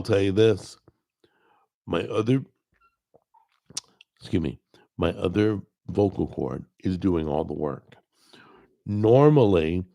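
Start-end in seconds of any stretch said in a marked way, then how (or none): 1.9-7.9 1 strained voice. Real, not acted. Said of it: "my throat's getting all weird".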